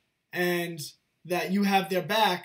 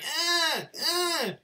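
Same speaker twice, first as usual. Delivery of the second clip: put-on high-pitched "ah, ah" of a fussing child; imitated toddler whine; 8 semitones higher than usual. Dad imitating his toddler stuck in a toy car, high whining. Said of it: "And he's like".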